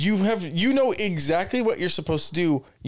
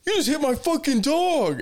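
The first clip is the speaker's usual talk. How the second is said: mock angry dog owner; 12 semitones higher than usual. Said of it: "And we hear".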